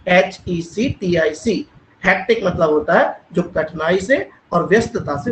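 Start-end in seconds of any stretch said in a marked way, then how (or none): 0.1-1.7 letters spelled out slowly; slow letter-by-letter spelling. Shown as a demonstration. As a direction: spell each letter clearly for the class. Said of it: "हेक्टिक एक word है".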